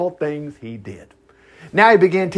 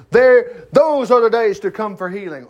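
mock shouting leader; 5 semitones higher, 3 dB louder than usual. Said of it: "He shouted to the crowd".

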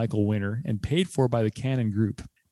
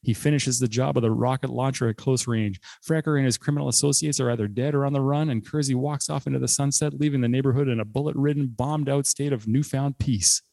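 rapid-fire recap, rushing to beat the clock; fast auctioneer talk. Shown as a demonstration. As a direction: rattle it off like an auctioneer. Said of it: "I'll be talking like an auctioneer".

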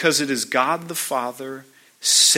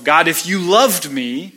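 pleading demands, climbing higher and faster; demanding of God; 3 semitones higher than usual. Retold or imitated. A believer bargaining with God, rising insistent pleading. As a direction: push each "if you really loved me" harder and higher. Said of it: "So I think to myself".

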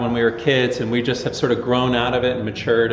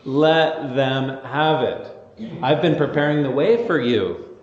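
eager John. Retold or imitated. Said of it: "He is like".

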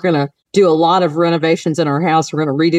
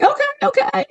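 meek okay. Retold or imitated. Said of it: "So I'm like".

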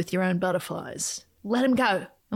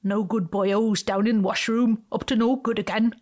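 badly faked Welsh lilt; unconvincing mock-Welsh accent; terrible Welsh accent. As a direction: attempt a Welsh accent and miss. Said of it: "That's a terrible accent imitation, not Welsh at all".

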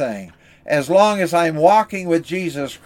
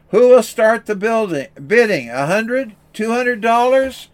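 auctioneer calling bids; 6 semitones higher than usual. Acted. Auctioneer urging the room to bid, calling out higher. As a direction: sell it hard to a reluctant crowd.

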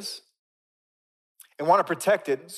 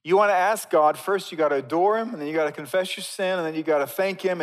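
louder, higher instructing voice; rule-giver; 5 semitones higher, 6 dB louder than usual. Acted. Preacher acts out people prescribing prayer, insistent rule-giver. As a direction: lay down the rules, loud and insistent. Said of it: "We start saying".

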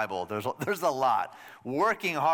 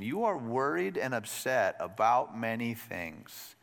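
gentle kindness; 3 semitones lower, slower than usual. Retold or imitated. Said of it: "With genuine kindness".

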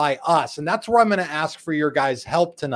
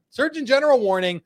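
mock official announcement; 8 semitones higher than usual. Announces a parody warning label.

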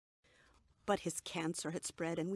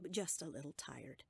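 smiling; 4 semitones lower, 4 dB quieter than usual. A narrator's reading. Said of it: "I said, smiling".

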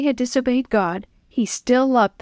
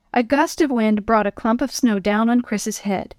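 ordinary delivery

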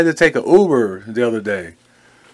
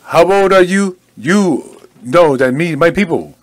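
put-on mild African accent; 2 semitones higher than usual. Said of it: "I did an African voice".

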